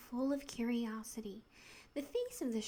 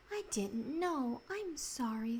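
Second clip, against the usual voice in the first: humbly. Acted. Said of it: "said Polly humbly".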